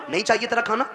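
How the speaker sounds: नहीं चाहिए तेरा खाना yelled high and loud; shouting son. Retold or imitated. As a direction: throw the words at his mother in a rage. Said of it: "इसलिए माँ से कह रहे हो ना". (ऊँची चीख में "नहीं चाहिए तेरा खाना")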